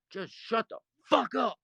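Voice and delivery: telling Bull to drop it, shouting; sharp shout. Retold or imitated. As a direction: cut him off for good. Snapping again.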